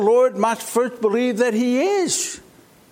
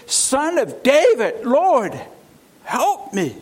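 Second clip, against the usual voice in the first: crying out; 3 semitones higher, slower than usual. Acted. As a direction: cry out, begging him to notice you. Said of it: "comes to him and says".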